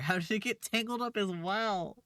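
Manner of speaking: slow words through laughter; laughing. Real, not acted. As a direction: laugh while asking. Laughing at armpit hair.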